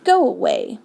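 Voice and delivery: high, exasperated protest; a touch of comic outrage; bellowed. A narrator's reading. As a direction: moderate bellow of annoyance. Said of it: "bellowed Trumpkin".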